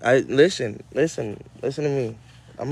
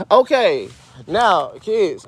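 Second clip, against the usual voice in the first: raised, drawn-out storyteller's call; calling kids together; 4 semitones higher, 5 dB louder, much slower than usual. Pretend. Host opening story time for the kids, calling them in. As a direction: gather the kids for story time, higher and louder.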